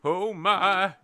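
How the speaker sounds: high, loud frantic fluster; panicking old rabbit. Retold or imitated. Old rabbit leader begging the warren for advice, high frantic panic. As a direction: wail like a leader who has lost his nerve. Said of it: "and he's like".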